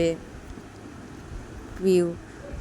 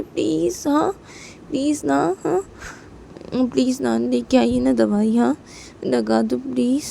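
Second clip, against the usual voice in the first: put-on pleading little girl; 2 semitones higher than usual. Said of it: "रोई P को बोलती है".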